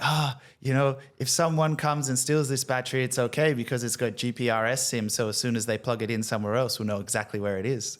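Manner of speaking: put-on lightly done African accent; a touch of African accent, retold. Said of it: "But he's like".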